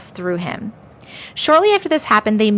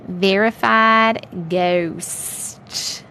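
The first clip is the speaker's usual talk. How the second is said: very slow, lower put-on accent; Missus Doubtfire; 4 semitones lower, much slower than usual. Streamer announcing story title, mock Doubtfire accent. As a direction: stretch each word in a nanny-like accent. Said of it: "Missus Doubtfire accent".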